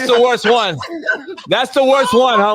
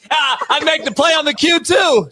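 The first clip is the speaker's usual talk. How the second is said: laughing quote; 3 semitones higher than usual. Retold or imitated. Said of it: "I'm like".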